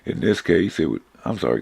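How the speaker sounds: hoarse, losing voice. Real, not acted. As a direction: voice giving out mid-sentence. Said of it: "I'm losing my voice here".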